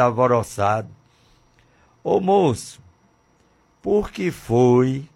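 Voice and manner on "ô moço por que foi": officer questioning. Acted. Voicing a traffic officer.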